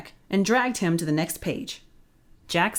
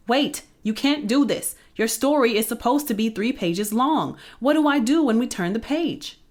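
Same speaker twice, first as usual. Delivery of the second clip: panicky pleading; 6 semitones higher, 3 dB louder than usual. Acted. Jack panics as characters leave.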